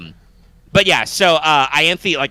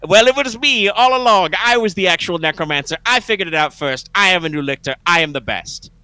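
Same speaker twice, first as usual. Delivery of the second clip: megalomaniac rant; 5 semitones higher than usual. Retold or imitated. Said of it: "villain rant".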